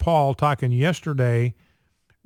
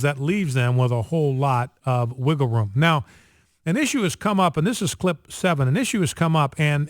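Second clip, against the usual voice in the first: usual speaking voice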